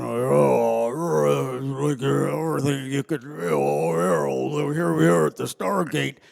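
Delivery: lightly voiced Southern general; a hint of a slow Southern general; Southern drawl impression. Imitating General Hammond's Southern way of talking. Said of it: "and he talked like this".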